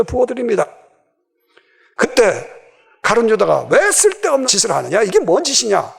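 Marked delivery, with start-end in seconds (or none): 3.7-5.9 mild indignant rebuke, swooping pitch; acted scolding. Preacher voicing Judas rebuking the woman with the perfume, mock scolding. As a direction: chide as if it were pointless waste. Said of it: "라고 꾸짖습니다".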